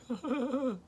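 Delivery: high, mock sobbing; short hammed-up boo-hoo sobs; imitated crying. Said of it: "like, crying".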